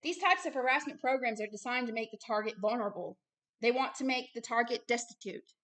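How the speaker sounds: measured, even reading voice; reading aloud. Real, not acted. Minister reading out how targets get harassed, measured. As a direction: read the document out carefully, phrase by phrase. Reads a written passage aloud.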